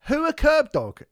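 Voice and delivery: high, loud incredulous question; mock clueless listener. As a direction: imitate a baffled listener piping up. Voices puzzled listeners' question.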